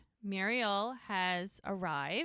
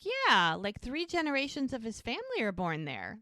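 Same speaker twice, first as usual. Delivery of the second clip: excited; 3 semitones higher than usual. Retold or imitated. Charmaine tells Jack about Todd's family hospital, excited. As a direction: gush a little, retelling her excitement. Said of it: "Like, she's excited".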